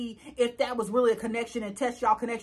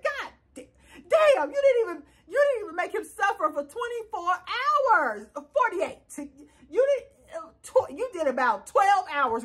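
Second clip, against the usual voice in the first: laughing exasperation; 4 semitones higher than usual. Retold or imitated. Telling K K off for going back, laughing. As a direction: laugh while scolding.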